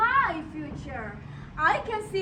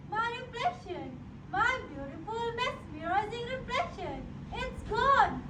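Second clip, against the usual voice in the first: wailing; 2 semitones higher, 4 dB quieter than usual. Acted. Wailing over muddy water.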